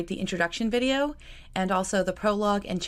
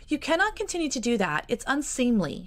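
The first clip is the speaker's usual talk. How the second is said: higher, playful half-laughing protest; laughing scold; 7 semitones higher than usual. Acted. Georgiana gently scolds her cousin for kissing her head, laughing. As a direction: tease him away with a light laugh. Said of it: "she said, with a laugh".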